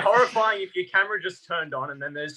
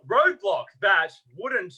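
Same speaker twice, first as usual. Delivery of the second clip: slow mock line; 3 semitones higher, much slower than usual. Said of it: "someone was gonna go".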